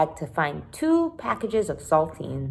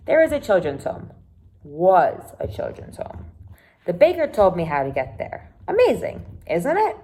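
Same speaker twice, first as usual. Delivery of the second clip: excited Caroline; 3 dB louder than usual. Acted. Caroline tells Sam about the home, lightly voiced and pleased. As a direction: share the good news brightly.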